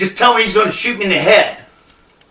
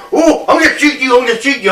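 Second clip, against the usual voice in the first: high-pitched jittery threat, easing off; Barney Fife; 4 semitones higher, faster than usual. Retold or imitated. Gunman threatening from behind the corner, mock jittery bluster. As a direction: imitate a flustered, inept deputy. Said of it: "Barney Fife".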